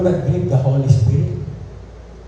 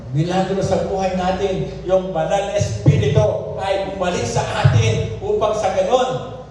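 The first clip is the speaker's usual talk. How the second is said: impassioned preaching; 6 semitones higher than usual. Real, not acted. Preaches with raised voice.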